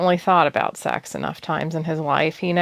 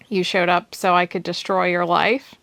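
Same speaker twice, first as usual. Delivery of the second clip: teasing. Acted. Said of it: "she teased".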